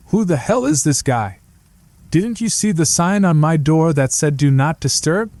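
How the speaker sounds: put-on grumpy dummy with a light Boston accent; irritated puppet, a hint of Boston; woken-up puppet scolding the janitor, slight Boston accent. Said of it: "a slight tinge of Bostonian accent".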